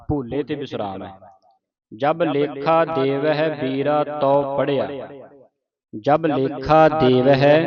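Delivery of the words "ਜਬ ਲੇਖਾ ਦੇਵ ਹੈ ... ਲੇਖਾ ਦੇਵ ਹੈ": slow recitation with a pause after ਵੀਰਾ. Shown as a demonstration. Teacher showing a student where to pause in ਵੀਰਾ. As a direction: stop briefly after ਵੀਰਾ, then go on. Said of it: "ਵੀਰਾ ਤੇ ਵਿਸਰਾਮ ਲਾਉਣਾ ਹੈ".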